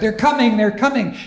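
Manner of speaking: they're coming, called up high; excited calling out. Acted. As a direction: call it out as the riders appear. Crowd calling out the arrival.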